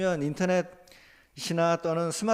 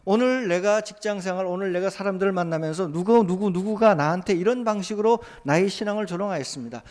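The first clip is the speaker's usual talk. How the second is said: raised, louder pleading prayer; a believer crying out to God over mockery, louder and higher; fervent prayer; 4 semitones higher, 4 dB louder than usual. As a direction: pour out the complaint to God with urgency. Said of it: "이런 이야기를 하나님 앞에".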